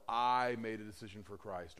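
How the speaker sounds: long, held I; stress on I. Retold or imitated. Preacher quoting believers who credit themselves, stress on I. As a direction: lean on the word I. Quote stressing the wrong person.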